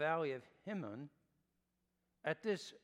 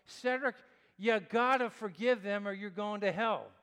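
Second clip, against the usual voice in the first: stern self pep talk; 3 semitones higher, 8 dB louder than usual. Retold or imitated. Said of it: "I have to say to myself".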